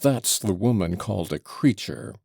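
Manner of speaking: spluttering rant. Acted. Old father ranting at his son, breathless. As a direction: keep spluttering at him. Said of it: "breathless and spluttering".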